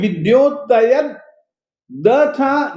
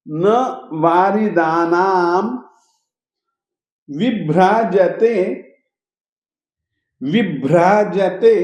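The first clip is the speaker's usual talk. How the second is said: shloka recitation; 2 semitones lower than usual. Shown as a demonstration. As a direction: recite each word deliberately. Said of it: "फिर से".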